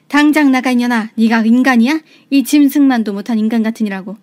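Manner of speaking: loud furious shouting; angry yell. Acted. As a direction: throw her out with a yell. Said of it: "소리를 질렀어요". (소리 지르며 호통치듯)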